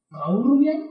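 full name climbing steadily upward; incredulous question. Retold or imitated. Confirming it is his former partner, incredulous. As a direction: check the name as if unbelievable.

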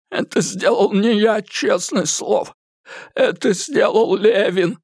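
high, frantic thug voice, swearing; a beaten man blurting desperate denials; frightened high-pitched captive; Eddie, panicked. A narrator's reading.

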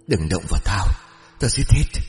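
put-on a spirit snarling through a little girl; possessed child voice, shrill and menacing. A narrator's reading. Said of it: "Tiếng nói the thé không giống như giọng của trẻ thơ".

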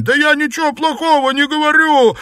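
high, loud, fast panicked yell; shouted out. Acted. Xuepan yells his denial to Liu Xianglian. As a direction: blurt out in a panic. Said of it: "выкрикнул Сюэпань".

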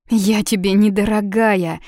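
loud indignant retort, stress on не. A narrator's reading. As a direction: throw the word back at him, offended. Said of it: "возмутилась Юна".

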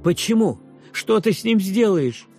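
high, loud frightened question; alarmed boy. A narrator's reading. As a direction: cry out in panic. (испуганный мальчик, громко)

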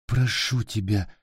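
put-on scared little boy begging; pleading child. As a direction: plead with the goblin not to eat him. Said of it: "взмолился Питер".

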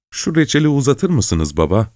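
high, theatrical request; ringing stage voice. A narrator's reading. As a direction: project lightly as if on stage. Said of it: "sesi sahnede konuşuyormuş gibi çın çın ötüyordu". (sahnedeymiş gibi çınlayan sesle)

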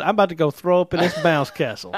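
tipsy laughter in the voice. Real, not acted. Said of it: "I'm feeling good".

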